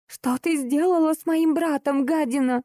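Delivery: high, furious accusing voice; hysterical princess. Acted. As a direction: hurl it at her shrilly. Марибель обвиняет героиню. (визгливая истеричная принцесса)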